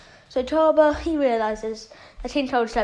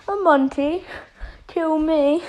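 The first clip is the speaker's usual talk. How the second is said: higher, mildly scoffing incredulity; mock-amused Frieza; 4 semitones higher than usual. Frieza answers Vegeta's threat, lightly scoffing and higher. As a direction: question it scornfully, pitched up. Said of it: "he starts laughing as he says".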